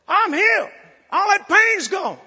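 high joyful shout; healed shout. Retold or imitated. Healed man shouting to the preacher, joyful. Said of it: "and he said".

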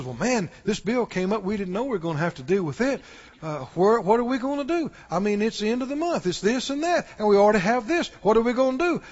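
worried fretting. Retold or imitated. Someone worrying over a bill at month's end, soft and anxious. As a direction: fret quickly, voice kept down. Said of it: "Somebody says".

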